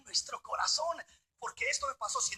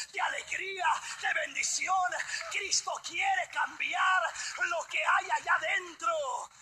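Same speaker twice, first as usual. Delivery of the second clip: loud fiery sermon shouting; preaching at full force; 4 semitones higher, 3 dB louder than usual. Acted. Preacher shouting to his congregation, fiery and loud. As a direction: preach it hard at the room.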